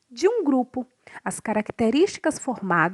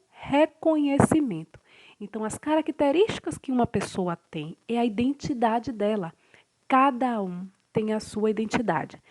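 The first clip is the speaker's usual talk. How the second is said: definition read. Acted. Narrator reading the definition of identity to students, formal read. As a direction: read it out like a dictionary entry.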